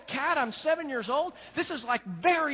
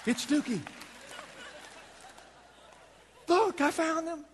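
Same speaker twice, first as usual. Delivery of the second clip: excited shout; 7 semitones higher than usual. Retold or imitated. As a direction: cheer it out. Celebrating the found cat.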